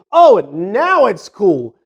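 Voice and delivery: sarcastic. Retold or imitated. Sarcastic thought about changed attitudes.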